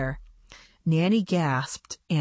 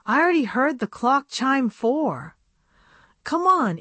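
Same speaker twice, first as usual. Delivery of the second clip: put-on higher, hurried girlish voice; pressing young doll voice, pitched high; urgent girl doll; 7 semitones higher than usual. A narrator's reading. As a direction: hurry her friend along before the clock strikes. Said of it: "said Tiffany".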